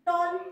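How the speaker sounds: टॉल said in one unbroken beat; टॉल as a single syllable. Shown as a demonstration. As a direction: say टॉल all at once, no pause. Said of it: "एक साथ सुनाई आ रहा है".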